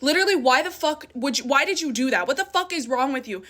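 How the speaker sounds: retold anger. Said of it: "And I was so mad".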